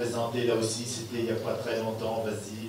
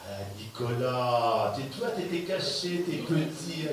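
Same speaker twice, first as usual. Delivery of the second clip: playful teasing; slower than usual. Real, not acted. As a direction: tease an overlooked friend from the stage. Animateur taquine l'athlète qu'il avait oublié. (taquinerie enjouée, voix qui monte)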